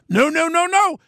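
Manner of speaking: sharp high protest, rising to the top; emphatic no. Real, not acted. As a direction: shoot the idea down hard. Emphatic denial of police rule.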